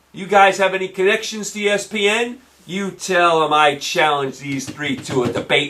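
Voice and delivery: ordinary delivery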